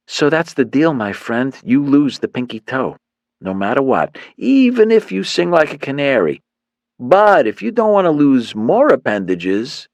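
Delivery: swaggering gang leader laying out the deal; cocky thug. Acted.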